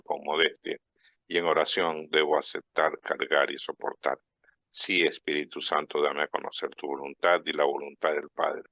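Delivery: measured, even recited prayer. Acted. Host leads listeners in a prayer to the Espíritu Santo, recited prayer.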